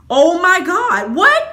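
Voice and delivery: slow, high Oh my God, then a rising what; shocked gasp. Retold or imitated. Hearing what the girl said about her, slow high shock. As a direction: drag it out in disbelief. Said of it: "and I'm just like".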